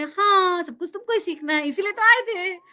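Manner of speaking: lilting, smiling divine answer; smiling reply. Acted. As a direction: answer as an indulgent, smiling God, lightly acted. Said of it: "भगवान कहेंगे मुस्कुराते हुए".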